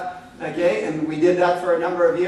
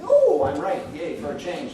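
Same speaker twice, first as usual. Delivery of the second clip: mock cheer. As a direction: crow about finally winning, in jest. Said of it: "It's almost like we're wearing t-shirts".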